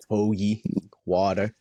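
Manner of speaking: short Delco-accent sample words. Shown as a demonstration. Co-host showing off that Delco accent. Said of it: "That Delco accent".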